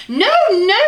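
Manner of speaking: high, loud alarmed cry; cried out. Acted. Mum rushing in to stop her son eating the sausage, a high loud cry. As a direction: stop him before he eats it. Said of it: "she cried".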